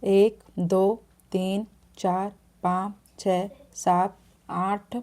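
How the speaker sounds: unhurried counting demo, pausing between numbers; counting the letters out slowly for the viewer. Shown as a demonstration. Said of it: "फिर इसके बाद नौ।".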